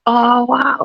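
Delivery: high-pitched retold "wow"; mock-amazed viewer; impressed reaction. Actor imitating a viewer watching the finished product, impressed.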